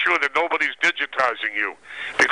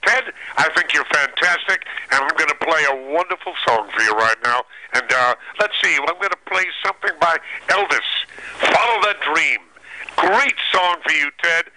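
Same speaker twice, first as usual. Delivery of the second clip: Cousin Brucey radio patter. Shown as a demonstration. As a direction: introduce a record like a radio DJ. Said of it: "I want to hear a Cousin Brucey".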